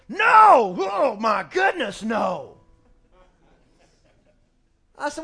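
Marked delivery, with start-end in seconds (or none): 0.1-2.6 put-on kids shouting no. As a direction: yell it like an indignant child. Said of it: "ask my kids".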